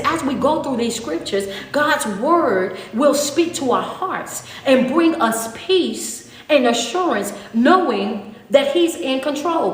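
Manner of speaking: slow, measured reading of the verse; scripture reading. Acted. Preacher reading the scripture to her online congregation, slow and measured. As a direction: read it out like a promise, unhurried.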